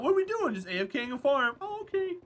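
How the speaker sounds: high, silly imitation of visiting friends; mock friend voices. Imitating friends dropping by, high and silly. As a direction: squeak out the friends' lines.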